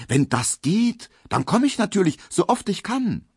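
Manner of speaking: eagerly, almost pleading; keen young suitor, voice climbing; eager promise. A narrator's reading.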